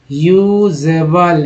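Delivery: ह्यूजेबल said slowly with a clear एबल ending; slow demo pronunciation. Shown as a demonstration. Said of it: "एबल बोलते हैं". (धीमा उच्चारण)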